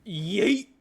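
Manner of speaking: loud high yell; yeet shout. Real, not acted. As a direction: throw it with a shout. Throwing the flare.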